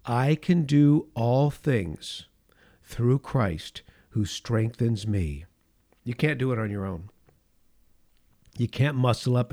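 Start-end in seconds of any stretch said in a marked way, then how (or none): 0.0-5.5 slow recitation. Acted. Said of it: "please say it with me".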